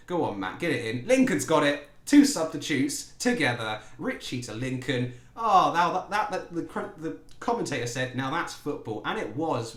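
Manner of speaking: loud, rising play-by-play as the goal builds; excited commentary. Real, not acted. Gamer cheering his team's goal, loud excited commentary. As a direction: call the move like a thrilled fan.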